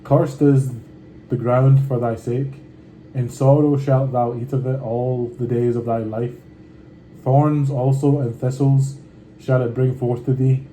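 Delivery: measured, unhurried Bible reading; scripture reading. Acted. Reading Genesis aloud to his viewers, steady scripture reading. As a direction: read the old words steadily and with care.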